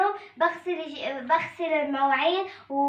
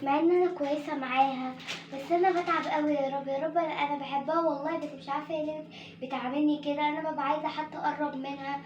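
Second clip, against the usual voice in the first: soft, sorrowful murmur under her breath; sad murmur to herself; 6 dB quieter than usual. Acted. Girl alone complaining about her stepmother, sad and soft. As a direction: pour out her hurt quietly, near tears.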